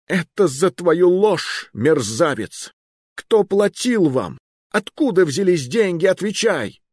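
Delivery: high, loud, slow fury; furious king. Acted. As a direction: rage at the liar. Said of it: "затрясся от гнева".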